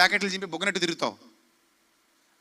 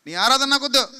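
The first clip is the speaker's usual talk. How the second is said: God's disgust; 4 semitones higher, 5 dB louder than usual. Retold or imitated. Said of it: "అంటాడు".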